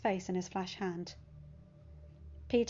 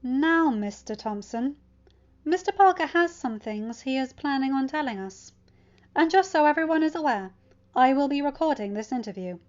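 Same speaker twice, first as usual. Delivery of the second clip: stern principal; 5 semitones higher, 6 dB louder than usual. A narrator's reading.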